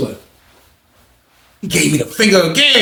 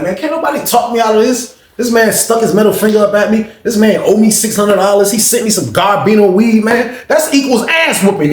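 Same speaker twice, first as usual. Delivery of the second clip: higher, insistent retelling of a grievance; worked-up outrage; 6 semitones higher than usual. Retold or imitated. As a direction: build an indignant case for a fight. Fuming aloud about the insult and debt.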